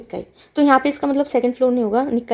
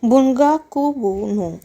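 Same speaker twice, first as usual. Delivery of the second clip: slow reading; 2 semitones higher, slower than usual. Shown as a demonstration. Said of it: "एक बार दोबारा read कर लेते हैं".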